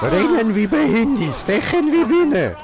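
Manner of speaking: großspurig. Pretend. Boasts after beating enemy.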